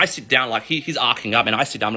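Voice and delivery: ordinary talk, nothing marked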